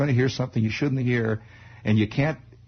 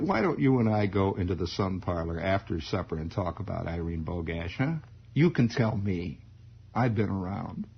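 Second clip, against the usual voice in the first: a bit lower, coaxing dad; lightly voiced father; 5 semitones lower, 3 dB quieter than usual. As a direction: coax gently as a knowing father.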